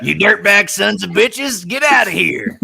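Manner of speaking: loud, slow redneck drawl; redneck demon voice. Acted. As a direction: holler it like a hillbilly demon. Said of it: "my redneck, uh, demon voice".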